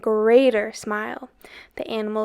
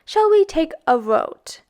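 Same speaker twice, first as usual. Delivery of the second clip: put-on higher, louder boy's question; 6 semitones higher, 5 dB louder than usual. A narrator's reading. A boy proposes a vote, higher and louder. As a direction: chirp the question nervously.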